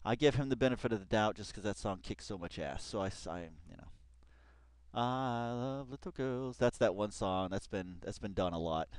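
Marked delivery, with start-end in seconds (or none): 4.9-6.6 slow, soft creepy line; creepy quote. Retold or imitated. Viewer quoting a creepy song, slow soft. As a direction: murmur it like a creep.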